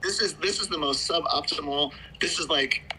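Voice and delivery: muffled, echoing phone line; grime tunnel. Real, not acted. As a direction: sound like you're in a tunnel. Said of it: "You sound like you're in a grime tunnel".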